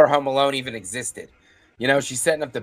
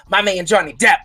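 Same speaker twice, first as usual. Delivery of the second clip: put-on lilting Irish leprechaun accent. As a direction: slip into a playful Irish lilt. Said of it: "I don't know why I sound like a leprechaun".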